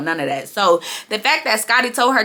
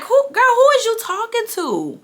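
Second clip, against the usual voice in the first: high, sassy mock Natalie voice; imitating Natalie; 13 semitones higher than usual. Vlogger mimics Natalie snapping at a castmate, high and sassy. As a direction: play Natalie, put out and high. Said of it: "And Natalie was like".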